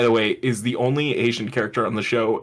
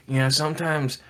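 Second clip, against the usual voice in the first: put-on old Southern. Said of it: "old and Southern all of a sudden".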